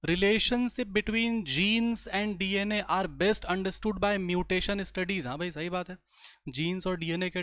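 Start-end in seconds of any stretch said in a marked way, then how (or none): 0.0-5.3 slow, measured reading of English text; textbook read-aloud. Acted. Teacher reads a textbook line to the class, slow read-aloud. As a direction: read it out slowly, word by word.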